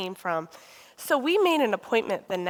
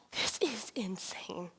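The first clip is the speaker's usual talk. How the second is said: slow, whispered "This is insane." with a falling end; hushed thought; 3 semitones lower, 11 dB quieter, slower than usual. Retold or imitated. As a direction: breathe it out slowly to yourself. Lying awake thinking, whispered.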